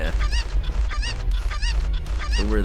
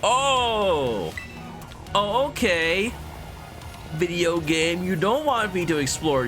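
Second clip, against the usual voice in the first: high character voice; 9 semitones higher, slower than usual. Acted. Reading a character's lines.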